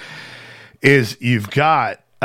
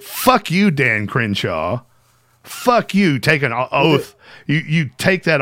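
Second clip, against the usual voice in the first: real anger; 2 semitones higher than usual. Real, not acted. Streamer ranting at Dan Crenshaw for threatening students, angry. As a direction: vent real fury at the congressman.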